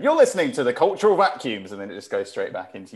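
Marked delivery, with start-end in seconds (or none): 0.0-1.7 higher-pitched imitation of a show jingle voice; imitated break bump. Co-host mimicking Lou's mid-show break bump, imitated announcer voice. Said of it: "there's a little break bump. It's just Lou going".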